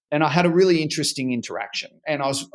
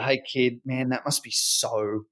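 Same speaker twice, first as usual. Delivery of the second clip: put-on softer, quieter words to a hurt child; gentle comfort; 2 semitones lower, 5 dB quieter than usual. Dad consoling his daughter after a bombed presentation, softly. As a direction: ease her down gently, trailing off.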